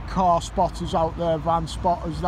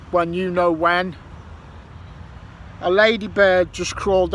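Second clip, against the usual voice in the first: made-up rhyming poem. Acted. Vlogger reciting a grumbling rhyme to mate Shane, mock-poetic. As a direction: ham up a grumpy improvised ode. I'm gonna make up some poetry.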